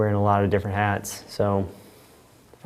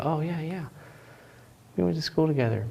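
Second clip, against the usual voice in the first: mock recognition; 6 semitones higher, 6 dB quieter than usual. Generic recognition quote.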